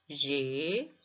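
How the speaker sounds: GEMA split into two drawn-out syllables with a pause; divisão silábica. Shown as a demonstration. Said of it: "dividimos em sílabas e cada sílaba". ("gema" dito sílaba a sílaba, com pausa)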